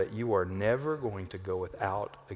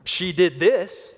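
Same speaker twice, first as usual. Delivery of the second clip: slow, louder, higher finger-pointing; acted accusation; 6 semitones higher, 8 dB louder, slower than usual. Family member blaming another, acted accusation. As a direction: drag out the accusation, raised voice.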